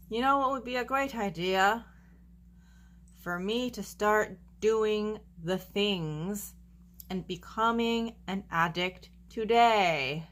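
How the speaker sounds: mock cheerful sarcastic quote; ironically chirpy, as if it were a bright idea. Mocking the idea of choosing addiction.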